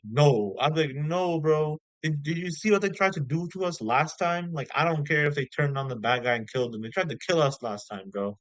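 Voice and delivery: fed-up pretend retort; indignant refusal. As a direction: refuse it like it's obvious. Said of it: "if I were him, I'd be like".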